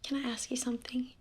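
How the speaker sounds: uneasy hushed whisper. Acted. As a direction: breathe the question quietly.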